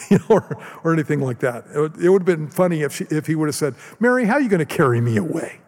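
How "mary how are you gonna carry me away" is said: higher-pitched, quick joking protest; playfully baffled, rushing the question; mock incredulous. Joking imagined reply from Jesus.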